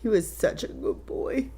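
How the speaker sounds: soft, tearful voice; choked up with loss; real tearful grief. Real, not acted. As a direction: say it quietly through tears. Mother grieves her dead son.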